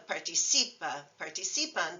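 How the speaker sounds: participa and participan both stressed on CI; next-to-last syllable stress. Shown as a demonstration. Teacher showing where stress sits, next-to-last syllable. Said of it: "Notice how the stress shifts".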